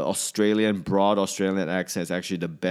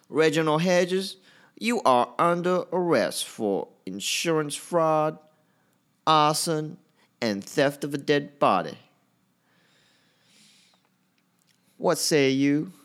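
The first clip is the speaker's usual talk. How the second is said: clumsy, bad, very high-pitched Southern US accent; 9 semitones higher than usual. Trying out a mock arrest line in stand-up, bad american southern accent. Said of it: "I'm working on my American South accent".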